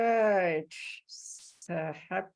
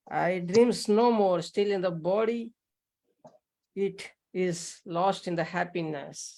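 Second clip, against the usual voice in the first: measured, emphatic verse recitation; reciting a verse; 4 dB louder than usual. Acted. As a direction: recite the sacred line with weight, pausing between phrases. Recites a scriptural line aloud.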